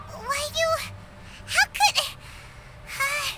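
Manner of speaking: sputtering, broken-off outrage; halting, speechless indignation; lost for words. Acted. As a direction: splutter in fragments, too shocked to finish. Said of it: "Paimon is lost for words".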